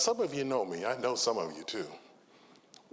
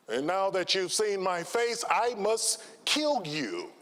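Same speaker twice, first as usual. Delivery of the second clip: mock menacing burglar; 7 semitones higher, slower than usual. Burglar threatens in joke.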